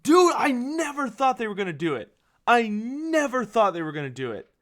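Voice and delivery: high, emphatic amazement; excited disbelief. Real, not acted. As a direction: exclaim it like a stunned fan. Reacting in disbelief to announced revival.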